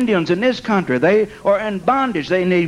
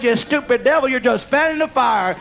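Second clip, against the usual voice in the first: gleeful scolding of a devil, pitched higher; mocking taunt; 4 semitones higher than usual.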